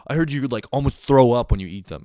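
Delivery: put-on high school kid. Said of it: "I would be like".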